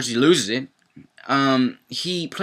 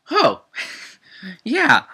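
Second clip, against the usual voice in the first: high, loud laughing oh yeah; laughing mock oh yeah; 10 semitones higher, 4 dB louder than usual. Real, not acted. Vlogger reacting to Oscar's rejection, laughing. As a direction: laugh it off sarcastically.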